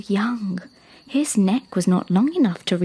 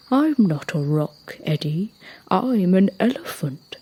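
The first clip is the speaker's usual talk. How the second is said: big elephant. Acted. Elephant corrects giraffe.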